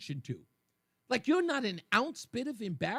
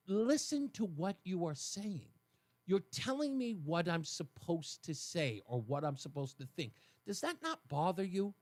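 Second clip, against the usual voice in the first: calm soothing voice; 4 semitones lower, 6 dB quieter than usual. Retold or imitated. Host calming a heated caller, softer and lower. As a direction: talk them down gently. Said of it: "I have to calm them down".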